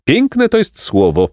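high, drawn-out bird cry; mild shriek, high and slow; shrieking pelican. A narrator's reading. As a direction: squawk it slowly with delight. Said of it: "wrzasnął Pelikan".

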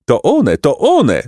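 lively storybook exclamation; maidens calling out. A narrator's reading. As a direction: call out as you spot the runner. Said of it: "zawołały dziewice".

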